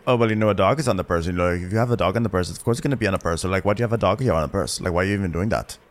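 mildly deadpan, rapid-fire complaint; monotone reaction. Retold or imitated. Mimicking a cast member's running commentary, fast monotone. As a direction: rattle it off unimpressed, barely varying the tune. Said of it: "just giving, like, monotone reaction".

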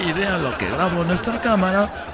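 gossip show host. Acted.

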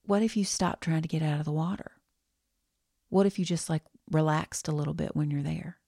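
put-on a gentle Southern aunt's accent, hinted at; warm Southern accent. Kind therapist asking her weeping client, light Southern accent. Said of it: "a warm Southern accent from a very, very kind human".

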